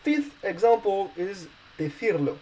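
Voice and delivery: "decirlo" with stress on the I, de-CIR-lo; Spanish word demo. Shown as a demonstration. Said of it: "in order to have the, uh, I stressed".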